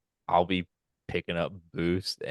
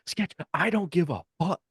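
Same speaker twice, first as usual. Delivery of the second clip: exasperated dismissal; 10 semitones higher than usual. Retold or imitated. Imitating exasperated dismissal of Sketch.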